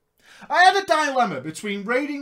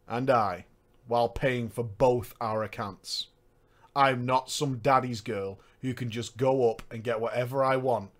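lower, quieter deadpan delivery; flat, emotionless robot read; monotone voice; 9 semitones lower, 4 dB quieter than usual. Retold or imitated. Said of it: "in a monotone voice".

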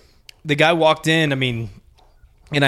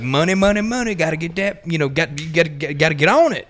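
Foghorn Leghorn boss; 3 semitones higher, faster than usual. Retold or imitated. Storyteller imitating his old boss hustling for money. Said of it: "my boss was like Foghorn Leghorn".

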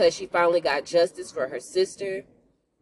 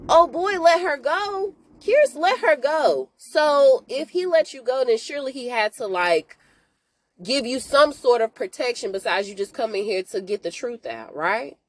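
imitating own disbelief; 5 semitones higher than usual. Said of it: "And I was like".

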